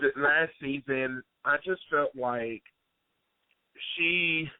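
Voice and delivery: real tears welling, voice thick; choked up and crying over the fan; teary. Real, not acted. Fan meets idol on radio and cries, voice thick. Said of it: "Willie, are you really crying?".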